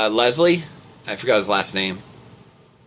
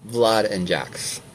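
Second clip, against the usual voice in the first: 3 dB quieter, much slower than usual. Acted. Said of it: "what my voice sounds like when I pretend to be".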